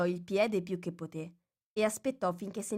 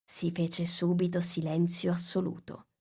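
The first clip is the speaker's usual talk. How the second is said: ordinary delivery, nothing marked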